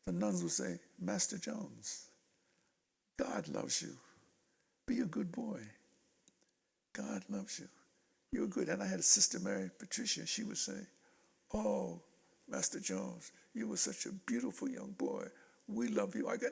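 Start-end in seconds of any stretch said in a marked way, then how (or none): 1.0-8.7 soft, higher-pitched gentle blessing; slow, softly lilting reassurance; kindly nuns. Retold or imitated. Nuns' kindly words, acted in story. 11.5-16.3 soft, doting praise with pauses; hushed, affectionate reassurance; fond nun. Retold or imitated. Sister's fond words, acted in story.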